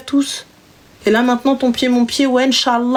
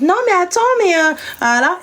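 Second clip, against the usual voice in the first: put-on higher, girlish hesitant voice; a mock girly voice, higher; her little voice; 6 semitones higher than usual. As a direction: play the shy girl brushing him off. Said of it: "avec sa voix en mode".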